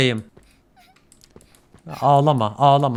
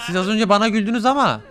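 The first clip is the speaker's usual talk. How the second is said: mock hurt; 4 semitones higher than usual. Acting hurt at pigs.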